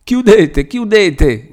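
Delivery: high, shrieking plea to shut the door; frantic cry. A narrator's reading. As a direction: beg them to close it in terror. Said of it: "gridava Lucia".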